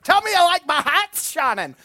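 hammed-up film line; movie quote voice. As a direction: blurt it out like a film character. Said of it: "Sorry, that's from a movie".

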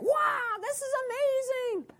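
high, hammed-up wow of amazement; mock cheering. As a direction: pretend the crowd is thrilled. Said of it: "you guys aren't cheering at that point, like".

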